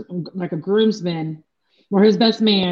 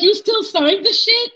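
high, laughing mock outrage; laughing disbelief; 12 semitones higher than usual. Best friend asks if she really signed it, laughing. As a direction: giggle the question out, high. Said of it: "his best friend was like".

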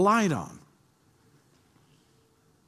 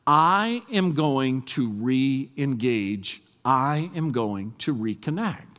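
slow determined vow; 4 semitones lower, slower than usual. Acted. Resolving to re-engage, quoted self.

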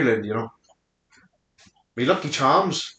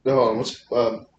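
mock African British accent. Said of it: "That's my African British".

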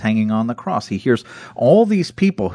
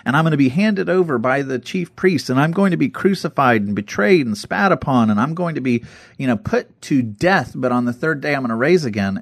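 excited retelling; 4 semitones higher than usual. Retold or imitated. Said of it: "in Jesus' excitement".

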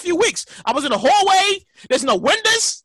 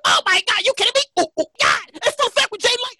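high, hyped-up radio personality; mock on-air excitement; 7 semitones higher than usual. Shown as a demonstration. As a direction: gush like an excitable radio host. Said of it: "I couldn't do the".

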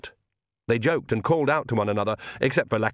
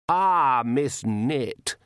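vague; 2 semitones higher, much slower than usual. A narrator's reading. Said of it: "he said vaguely".

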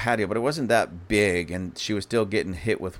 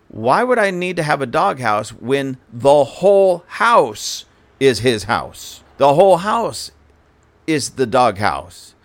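loud, slow, incredulous, higher; outraged; 4 semitones higher, 7 dB louder, slower than usual. Retold or imitated. Protesting the dog house demand to the officer, loud and outraged. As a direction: hammer home the absurdity slowly.

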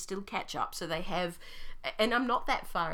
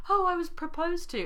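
high, loud mock swoon; a giddy, hammed-up swoon; 11 semitones higher, 6 dB louder than usual. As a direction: gush it like a giddy letter writer. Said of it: "then there's these".

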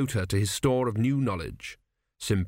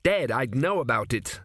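plain reading voice

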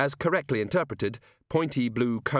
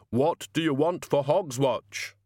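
hurried; 4 semitones higher, slower than usual. A narrator's reading. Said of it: "said the Hogfather hurriedly".

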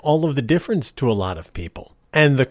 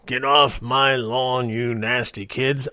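put-on grumpy old man; slower than usual. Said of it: "I sound like the old guy".

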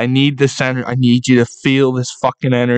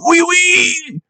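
Quebec crowd cheer. Retold or imitated. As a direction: yell it like Quebec fans. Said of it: "And they're like".

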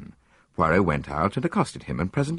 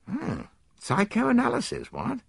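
alarm; slower than usual. A narrator's reading. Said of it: "with visible alarm".

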